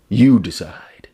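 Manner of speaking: slow, forceful whisper; stage whisper. Pretend. Host handing the verdict to viewers, slow loud whisper. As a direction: whisper it loudly and slowly, for effect. Dramatic aside to the audience.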